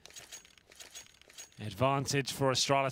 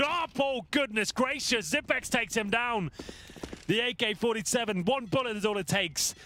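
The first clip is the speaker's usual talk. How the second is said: excited caster; 5 semitones higher than usual. Real, not acted. Dramatic kill, live commentary.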